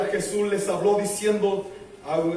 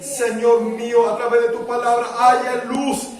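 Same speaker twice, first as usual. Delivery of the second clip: fervent prayer, settling; 3 semitones higher, 4 dB louder than usual. Real, not acted. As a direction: cry out to God, then ease down. Prayer swells then settles. (oración ferviente que se va calmando)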